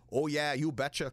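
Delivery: lightly done Minnesota accent, "you betcha" sung out; a hint of Minnesota nice. Shown as a demonstration. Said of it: "like, you know, Minnesota".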